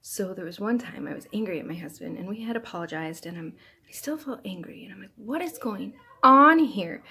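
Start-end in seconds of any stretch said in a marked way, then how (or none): 5.2-7.0 loud, slow, higher-pitched bafflement; retold exasperation, drawn out and emphatic; exasperated self-questioning. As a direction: ask yourself in loud, stretched-out disbelief. Baffled at still feeling angry.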